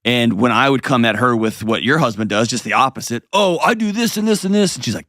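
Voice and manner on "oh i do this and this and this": mock self-defence. Retelling his own defensive self.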